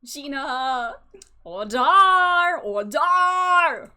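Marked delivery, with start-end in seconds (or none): 1.4-3.9 loud, higher booming command; judge calling order. Acted. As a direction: bang the gavel with your voice. Judge calls court to order.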